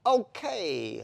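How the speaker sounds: high, loud puzzled okay; a squeaky bewildered okay; baffled interviewer. Retold or imitated. The Welsh interviewer reacting to the jockey, puzzled high okay. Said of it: "she went".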